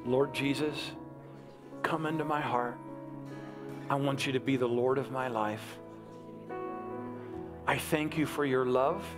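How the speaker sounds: measured prayer in short phrases with long pauses; leading a prayer. Real, not acted. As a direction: lead them phrase by phrase, leaving room to repeat. Leads congregation in prayer.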